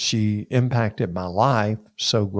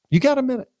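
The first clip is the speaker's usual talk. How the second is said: dean's question; 14 semitones higher, 3 dB louder, much faster than usual. Retold or imitated. Dean voiced in retold story.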